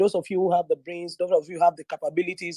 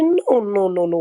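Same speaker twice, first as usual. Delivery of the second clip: small cute voice; 2 semitones higher, 5 dB louder, slower than usual. Retold or imitated. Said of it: "with that his small, cute voice".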